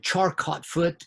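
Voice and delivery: Charcot said just as it's spelled; spelling pronunciation. Real, not acted. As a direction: say the French name Charcot by its English spelling. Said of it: "because that's how it's spelled".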